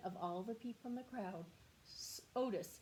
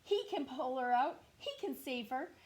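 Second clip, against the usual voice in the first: farmer calling out; 4 semitones higher, 5 dB louder than usual. Acted. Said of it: "the farmer shouted".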